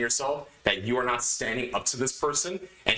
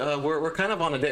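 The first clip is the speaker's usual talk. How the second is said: meek hesitant pushover voice, slightly higher; timid, punkish; 4 semitones higher than usual. Retold or imitated. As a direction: sound weak and apologetic. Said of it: "I didn't say it like a punkish way".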